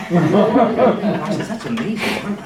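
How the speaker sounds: chuckling as he tells the punchline; words half-swallowed by real laughter; laughing through the line. Real, not acted. Doctor laughing at his own joke to the audience, laughing.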